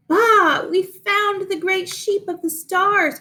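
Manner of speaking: triumphant sheep. A narrator's reading. The sheep announce their find to Abigail, triumphant. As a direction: crow it like proud sheep. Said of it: "cried Maisie, Daisy, and Clementine triumphantly".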